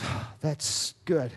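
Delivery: slow, drawn-out relieved friend voice; sudden cheerful switch. Retold or imitated. Retold friend, suddenly relieved and breezy. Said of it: "all of a sudden he changed".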